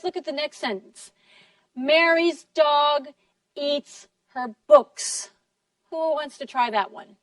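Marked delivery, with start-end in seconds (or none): 1.8-5.3 slow beats on "Mary's", "dog", "eats", "books", light "her"; all stressed but "her". Shown as a demonstration. Teacher models the next sentence, only "her" unstressed. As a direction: stress every word except "her", slowly. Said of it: "only her is not stressed".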